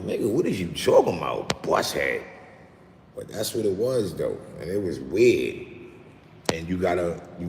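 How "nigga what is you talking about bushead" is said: incredulous question. Retold or imitated.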